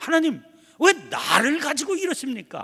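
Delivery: defiant, loud and high.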